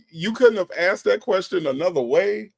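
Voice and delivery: incredulous. Real, not acted. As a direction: challenge him in disbelief. Baffled host challenges the man.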